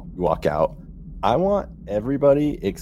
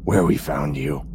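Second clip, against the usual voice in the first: ghost voice; 2 semitones lower than usual. Acted. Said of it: "but the ghost voice".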